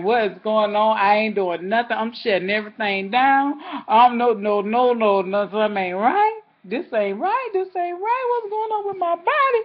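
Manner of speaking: frantic worried self-talk; alarmed. Retold or imitated. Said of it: "I'm like".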